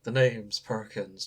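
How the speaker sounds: slow, low noir detective; film noir voice. Acted. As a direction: drawl it like a noir gumshoe. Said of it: "your reading voice of film noir".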